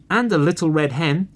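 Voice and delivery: screamed. Acted. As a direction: call it out like hungry cubs. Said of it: "screamed the other two".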